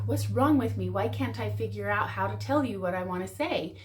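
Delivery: mock the partner blaming themself, exasperated; frustrated self-blame. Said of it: "people start trying to, like".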